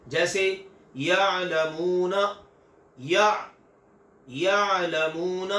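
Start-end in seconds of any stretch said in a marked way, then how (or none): 1.0-2.2 यअलमूना with a soft, unjolted ain in the throat; Arabic ain, soft and unbroken; soft ain, no jolt. Shown as a demonstration. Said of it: "कदरे नर्म और बगैर झटके वाली". 4.3-5.6 यअलमूना with a soft, unjolted ain in the throat; Arabic ain, soft and unbroken; soft ain, no jolt. Shown as a demonstration. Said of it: "इसको नरम रखना है".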